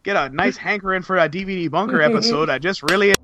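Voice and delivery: lightly mocked up-north Canadian accent; jokey Canadian-style northern lilt. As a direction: keep up a playful far-northern voice. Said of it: "let's take it up north".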